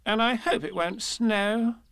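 high-pitched, breezy aside; jolly rabbit chatter; cheerful. A narrator's reading. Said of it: "said Rabbit cheerfully".

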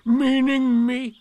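loud, high, drawn-out donkey disbelief; Eeyore. A narrator's reading. Eeyore asks if Piglet means him, slow and astonished. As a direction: stretch it out in astonishment.

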